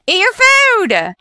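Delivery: put-on exasperated parent yelling at a toddler; mock scolding yell. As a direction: bark the order slowly like a fed-up parent. Scolding sims who won't eat.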